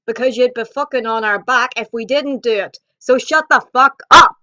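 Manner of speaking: yelling it out, building to a roar; loud ranting outburst at callers; furious shout. Real, not acted. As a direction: let the anger explode on the last words. Ranting at rude customers.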